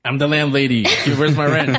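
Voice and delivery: demanding landlady voice; a mock rent-hungry landlady; cold greedy landlord.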